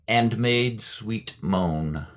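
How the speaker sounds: slow, drawn-out reading of "And made sweet moan"; lingering poetic demo. Shown as a demonstration. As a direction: savour each word of "And made sweet moan" slowly. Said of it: "so say".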